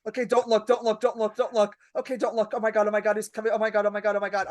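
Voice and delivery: mild repetitive panic under the breath of composure; urgent self-talk, barely holding it together; freaking out. Retold or imitated. Waitress telling herself not to look, freaking out. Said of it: "I'm freaking out".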